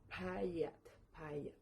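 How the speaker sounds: Payat modelled, then repeated; pronouncing Payat. Shown as a demonstration. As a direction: demonstrate Payat for learners. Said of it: "y se pronuncia".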